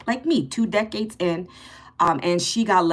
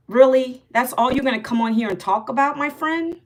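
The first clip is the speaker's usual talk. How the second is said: annoyed retort; 5 semitones higher than usual. Real, not acted. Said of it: "Obi thinks I'm rude".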